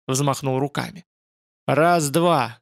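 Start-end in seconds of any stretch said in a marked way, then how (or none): none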